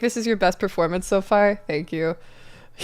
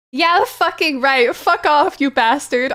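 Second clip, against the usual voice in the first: higher pitched, hammed-up yell; mock scream; 6 semitones higher than usual. Dramatic reader shouting at Draco in a hammed-up yell. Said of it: "I screamed".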